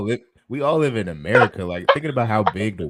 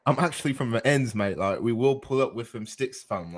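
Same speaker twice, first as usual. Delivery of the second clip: mock London accent; 5 dB quieter than usual. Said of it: "We ain't doing the U K voices tonight".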